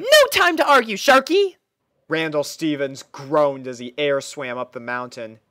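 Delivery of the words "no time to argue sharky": very high, loud and bright-eyed; a chirpy girl pony puzzled by her steed; squeaky cheerful pony; pony princess voice. Acted. Pony character voice.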